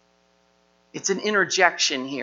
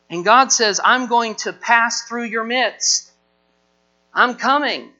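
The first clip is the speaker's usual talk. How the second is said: raised, forceful preacher voice voicing God; God's rebuke; 3 semitones higher, 5 dB louder than usual. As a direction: thunder it out as God scolding Israel. God rebuking Israel in sermon.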